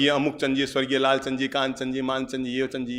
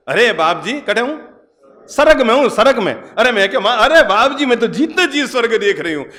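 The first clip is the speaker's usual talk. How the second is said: put-on raised, glowing voice of a contented old woman; happy old mother; 8 semitones higher, 5 dB louder than usual. Old mother telling the monk she is in heaven, raised and glowing. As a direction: beam with pride as the old mother.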